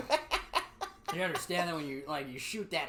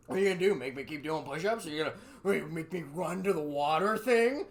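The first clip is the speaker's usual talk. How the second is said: taunting; 5 dB louder than usual. Retold or imitated. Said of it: "and be like".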